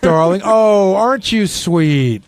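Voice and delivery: slow, syrupy mock sweetness; lightly voiced gushing compliment; Sal's serious talk voice. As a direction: stretch it out, fawning gently. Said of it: "serious talk voice".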